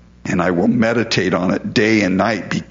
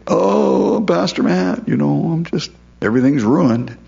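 mock distressed plea, pitched up; whining congregant; 5 semitones higher than usual. Churchgoer moaning to Pastor Matt, mock whiny. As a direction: play a desperate churchgoer pouring out woes.

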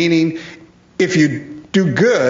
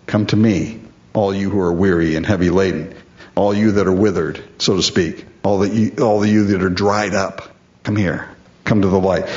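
tender invitation; 6 semitones lower than usual. Acted. Preacher voicing Jesus' invitation.

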